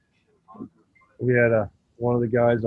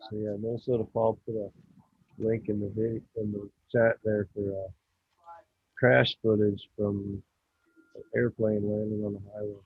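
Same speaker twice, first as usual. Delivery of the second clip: muffled, like under water; bad mic, underwater sound. Real, not acted. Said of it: "Your voice sounds like you're underwater".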